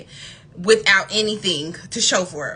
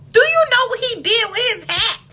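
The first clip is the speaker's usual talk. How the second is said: much higher, louder, laughing question; laughing repeat; 12 semitones higher, 6 dB louder than usual. Real, not acted. Asking viewers about the date's hat, laughing loudly. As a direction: repeat it cracking up.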